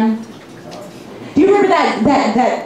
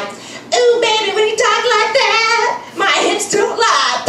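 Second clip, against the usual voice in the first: much higher breathy flirt; mock sultry reply; 10 semitones higher than usual. She answers a singer's line, hammed-up sultry flirt. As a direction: purr it back with hammed-up seduction.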